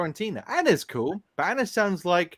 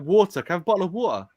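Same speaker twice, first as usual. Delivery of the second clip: London glottal T; faster than usual. Shown as a demonstration. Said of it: "You don't pronounce the T".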